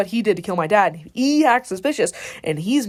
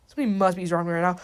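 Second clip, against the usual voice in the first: fast, run-together delivery; hurried, wary announcement; quick suspicion; 2 semitones lower, faster than usual. Retold or imitated. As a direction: rattle off the suspicion. Line retaken at another pace.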